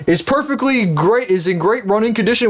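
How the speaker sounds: high-pitched mock salesman patter; used car dealer. Dealership selling a car with no engine, salesman voice.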